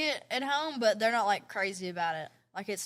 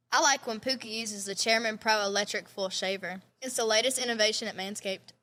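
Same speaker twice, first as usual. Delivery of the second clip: scripted podcast sponsor read; 3 semitones lower than usual. Real, not acted. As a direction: read the sponsor copy evenly.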